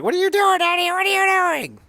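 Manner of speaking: high, shocked wife voice, pitched well up; imitating Alicia. Host imitating Alicia confronting Eddie in the ring, shocked. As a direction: play the stunned wife calling out her husband. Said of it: "she's like".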